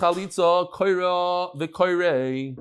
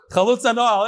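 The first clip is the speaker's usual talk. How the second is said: raised pitch, calling out the phrase; leading a group call; 4 semitones higher than usual. Pretend. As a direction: call it out to start everyone off.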